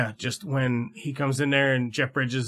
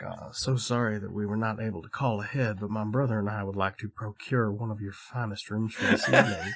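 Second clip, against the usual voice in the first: lower, softer mock-refined charm; smooth-talking Foster; 4 semitones lower, 4 dB quieter than usual. Foster sweet-talking the hotel clerk in mock posh tones. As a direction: lay on the fancy manners. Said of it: "And he's like".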